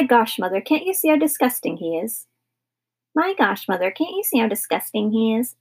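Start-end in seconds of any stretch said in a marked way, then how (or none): 3.1-5.5 mocking squeaky voice, pitched up at the start; high squeaky mimicry. Brother mimicking his sister's complaint, high and squeaky. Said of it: "mimicked Philip in a high, squeaky voice".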